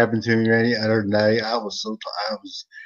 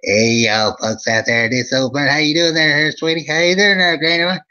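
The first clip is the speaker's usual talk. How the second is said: high, loud hillbilly storyteller from Eastern Kentucky; Old Vern character voice; 5 semitones higher, 4 dB louder than usual. Acted. Host greeting his viewers as Old Vern, hammed-up high folksy voice. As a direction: ham up a folksy Kentucky yokel, pitched up. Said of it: "it's the Old Vern Show".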